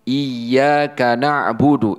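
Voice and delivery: "Iyyaka na'budu" said very slowly, with the doubled y; careful demo of "Iyyaka"; slow recitation. Shown as a demonstration. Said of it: "dibaca iyyaka na'budu". (bacaan pelan "Iyyaka na'budu")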